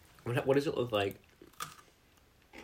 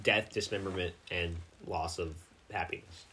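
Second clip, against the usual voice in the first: cheerful ad with eerie menace; 5 semitones lower, 7 dB quieter than usual. Pretend. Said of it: "Side effects may include".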